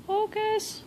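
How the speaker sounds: high wheedling plea to the camera; high coaxing plea. Real, not acted. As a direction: beg the camera, sing-song high. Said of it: "it's not gonna focus".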